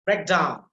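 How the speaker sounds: breakdown with DOWN stressed; stress on second word. Shown as a demonstration. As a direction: punch DOWN in breakdown. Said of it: "the second one will be a stress".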